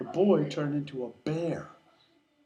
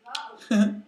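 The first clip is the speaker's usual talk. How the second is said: short high loud chuckle; brief laugh brushing it off; cub's laugh; 9 semitones higher, 5 dB louder than usual. Acted. Cub reacts to being dismissed.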